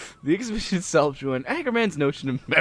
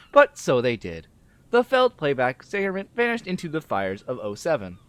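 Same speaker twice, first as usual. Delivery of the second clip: measured character reading, mostly lower; story read-aloud; 3 semitones lower than usual. Acted. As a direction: read the dialogue aloud, dropping low at phrase ends. Reads the game's dialogue aloud.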